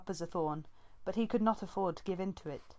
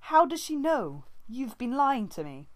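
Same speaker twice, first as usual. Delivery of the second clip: much higher and louder, outraged; furious outburst; 7 semitones higher, 8 dB louder than usual. A narrator's reading. Brambleclaw accusing Squirrelpaw of lying, furious shout. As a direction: hurl the accusation at her. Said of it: "His voice was loud with outrage".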